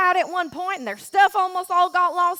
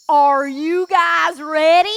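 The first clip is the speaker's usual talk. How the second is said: louder, slow, drawn-out rally call; hype-up shout; 7 dB louder, slower than usual. Shown as a demonstration. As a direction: fire up the crowd of kids. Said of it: "with a rip-roaring loudest voice".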